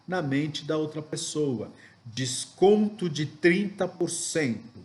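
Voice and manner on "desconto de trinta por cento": DESCONTO and TRINTA punched firmly; emphatic intonation. Shown as a demonstration. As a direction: sales line with weight on "trinta". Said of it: "trago essas frases com uma entonação específica".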